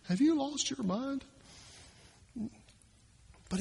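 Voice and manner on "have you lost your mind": higher, softer, rising in disbelief; higher, hushed incredulous question; incredulous parent. Retold or imitated. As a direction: ask it as if you can't believe your ears. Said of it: "Like we do with our kids sometimes".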